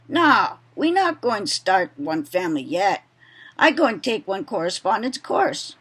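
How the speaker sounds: modest attempt at a Hawaiian Pidgin voice; reading a novel quote in a mild Hawaiian Pidgin accent. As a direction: read the Plantation Boy quote in light Hawaiian Pidgin. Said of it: "I'm not gonna probably do it very well, but I'll try".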